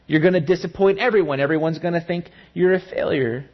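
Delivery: fast, pressing worried voice; a hint of panicky inner critic; anxious inner voice. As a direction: rush the fears out.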